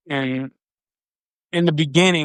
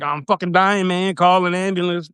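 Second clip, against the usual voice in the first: panicking; 4 semitones higher than usual. Retold or imitated. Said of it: "like, panicking".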